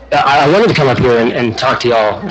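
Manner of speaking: breathless after rushing in; out of breath. Real, not acted. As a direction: talk while catching breath. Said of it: "Sorry, I'm out of breath".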